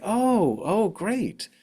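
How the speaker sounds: high, pleased oh of relief; relieved surprise. Retold or imitated. Friends told they may cry with her, relieved. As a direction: imitate friends brightening at good news.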